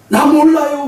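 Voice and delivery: high-pitched comic wail; flustered Chinese man. Acted. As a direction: play a Chinese man crying out, hammed up. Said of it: "중국 사람은 뭐라 그러는 거야". (높게 울부짖는 중국인 흉내)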